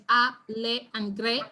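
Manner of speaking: "a, le, and gre" split into separate syllables. Shown as a demonstration. Teacher breaking a word down for students, syllable by syllable. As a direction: sound out "a, le, and gre" one piece at a time. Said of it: "if we syllabicate the word".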